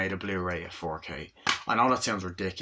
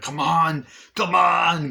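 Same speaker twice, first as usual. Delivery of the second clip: loud, raised-pitch mock shout; retold urgent yell; 8 semitones higher, 9 dB louder, slower than usual. Arnie calling after the woman running away, mock yell. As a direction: call out urgently, imitating a film hero.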